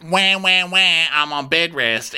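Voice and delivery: high-pitched fake baby cry; mock whining. Mocking a text about bed rest, fake whining. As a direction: bleat it in pretend self-pity.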